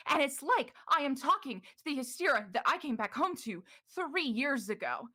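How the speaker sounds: building to hard fucking work; Morrow's angry pleading. Acted. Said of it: "you heard muffled yelling".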